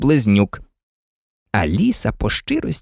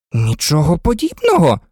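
indignant. A narrator's reading. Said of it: "обурилася Аліса".

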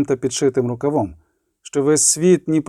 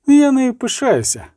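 higher, louder proud declaration; proud exclaim; 9 semitones higher, 3 dB louder than usual. Acted. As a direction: say it with fierce pride. Priestess proudly rejects forgiving. (жриця гордо вигукує про дівчину, вище й голосніше)

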